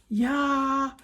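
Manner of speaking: high, loud battle yell; wild Viking war cry yell. Acted. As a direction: roar the hooligan war cry. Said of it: "yelled ten of the boys".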